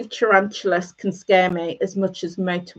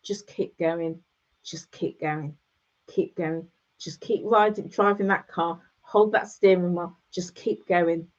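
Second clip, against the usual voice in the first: calm reassuring friend; 3 semitones lower, 3 dB quieter than usual. Retold or imitated. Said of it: "all she kept saying was".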